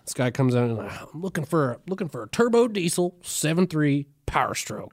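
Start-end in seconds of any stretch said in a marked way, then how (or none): 1.1-4.9 put-on southern accent. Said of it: "I do a southern accent with that".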